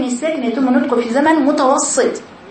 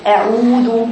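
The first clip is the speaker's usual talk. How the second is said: "أعوذ" with a stretched waw; full long waw; much slower than usual. Shown as a demonstration. Teacher warning pupils not to cut the waw, vowel held. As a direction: hold the و in "أعوذ" for its full length. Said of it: "بدي الواو دي".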